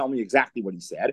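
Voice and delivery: ordinary talk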